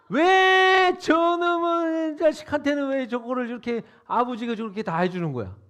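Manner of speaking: resentful elder brother venting; indignant outburst. Retold or imitated. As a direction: stretch the complaint out like a wronged son. Voicing the elder son's grievance.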